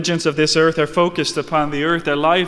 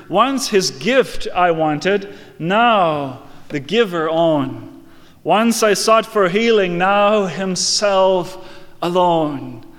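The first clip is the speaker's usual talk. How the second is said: reciting a hymn; 2 semitones higher than usual. Acted. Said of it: "It goes like this".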